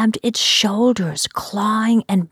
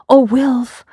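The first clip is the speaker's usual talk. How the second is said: calling out; 5 semitones higher, 8 dB louder than usual. Acted. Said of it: "I called".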